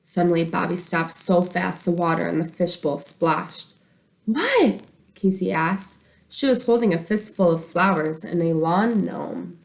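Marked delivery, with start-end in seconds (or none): 4.2-4.8 surprised question. Acted. Casey asks why he stopped.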